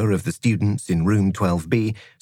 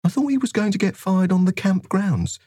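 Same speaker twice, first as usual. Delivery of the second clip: put-on dim big kid voice; 9 semitones higher than usual. Narrator voices Slugger Choppers.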